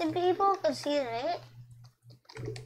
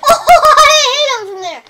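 much higher and louder, laughing in disbelief; laughing shout; 10 semitones higher, 17 dB louder than usual. Real, not acted. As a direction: crack up as you yell it. Laughing surprise at his shot.

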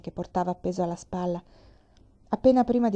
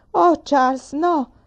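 loud, high cry of alarm; 7 semitones higher, 8 dB louder, much slower than usual. Acted. Mamma to Charles as he says he'll leave, alarmed cry. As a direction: shout it in dismay, pitched up. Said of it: "gridò mamma".

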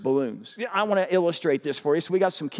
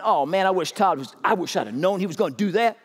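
put-on young man regretting; 6 semitones higher, 4 dB louder than usual. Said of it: "some young man going".

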